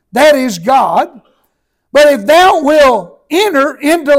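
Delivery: measured, solemn King James reading; preacher reading scripture to the congregation, steady and solemn. Acted. Reads the Bible passage aloud.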